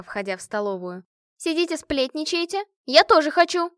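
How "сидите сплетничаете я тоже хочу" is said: excited. A narrator's reading. Машка calls to gossiping friends.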